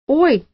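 sharp high yelp. Acted. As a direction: yelp in sudden pain. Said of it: "взвизгнул тот". (взвизгнув, высоко)

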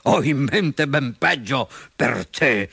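slow, menacing fox voice; sly villain relish; chuckling fox. Acted. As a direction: gloat slowly over the captive. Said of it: "ridacchiò la volpe".

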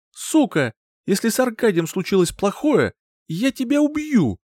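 furious mother threatening her partner; hissed through teeth. A narrator's reading. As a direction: threaten to kill him. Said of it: "процедила она сквозь зубы".

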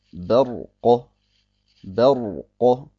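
Barqa mit hellem Ba und dunklem R; helles Ba. Shown as a demonstration. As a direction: halte das „Ba“ in Barqa hell, fast „Bä“. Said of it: "das Ba, äh, nicht dunkel". (Barqa, erst hell, dann dunkles Ra)

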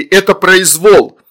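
high, slow, loud protest; exclaiming. A narrator's reading. Father shields daughters, outraged exclamation. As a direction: proclaim the outrage, drawing it out. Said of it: "воскликнул папа".

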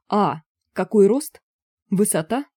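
light up with relief; dawning relief; relieved joy. A narrator's reading. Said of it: "обрадовался карлик".

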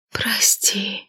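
soft whispered apology; hushed whispered sorry. A narrator's reading. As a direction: breathe it out like a ghost. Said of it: "её шёпот буквально оглушил".

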